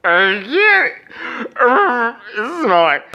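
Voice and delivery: mock the clerk's Indian accent, hesitantly. Comic to the clerk about the smoky car, mock Indian accent. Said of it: "I, I am just like".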